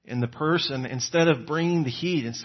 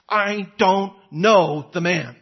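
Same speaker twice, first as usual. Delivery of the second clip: sworn denial; 4 semitones higher, 5 dB louder, slower than usual. Retold or imitated. Peter swears and curses.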